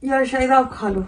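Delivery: soft drowsy refusal; sleepy. Acted. Woman sleepily telling the man to eat alone. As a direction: mumble it half asleep.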